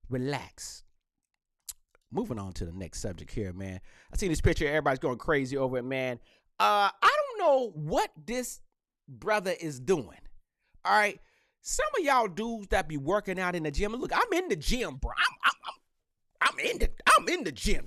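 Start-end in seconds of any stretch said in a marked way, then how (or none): 0.1-0.8 soft relax. Shown as a demonstration. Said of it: "second relax quieter, far". 13.9-17.8 mock gym bro.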